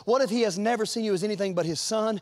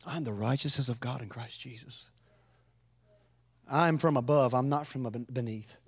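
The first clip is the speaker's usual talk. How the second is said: kind self-talk; 4 semitones lower than usual. Shown as a demonstration. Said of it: "talk kindly to yourself".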